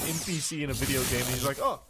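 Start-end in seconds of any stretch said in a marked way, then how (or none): 1.6-1.8 higher, chirpy switch to friendly small talk; sudden cheery NPC. Retold or imitated. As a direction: flip instantly to fake sweetness like a game NPC. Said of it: "immediately de-aggroing, like an NPC".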